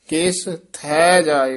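ਕਿਸ ਥੈ ਜਾਏ with small breaks, words not merged; separate words. Shown as a demonstration. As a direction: keep ਕਿਸ, ਥੈ, ਜਾਏ apart. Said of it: "ਇਕੱਠਾ ਨਹੀਂ ਕਹਿ ਦੇਣਾ".

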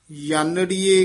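ya-naree-ye for ਯਾਨੜੀਏ; initial y sound. Shown as a demonstration. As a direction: start ਯਾਨੜੀਏ on a clear ya. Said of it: "ਇਹ ਯਈਏ ਨਾਲ ਹੀ ਉਚਾਰਨ ਕਰਨਾ".

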